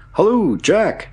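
high-pitched hailing shout; long, high halloo across a distance. A narrator's reading. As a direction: call down to a friend far below. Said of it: "he shouted".

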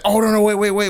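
high, loud, flustered interruption; mock-panicked plea to hold on; urgent mock protest. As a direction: cut in frantically, imitating the driver. Imitating driver halting the handover.

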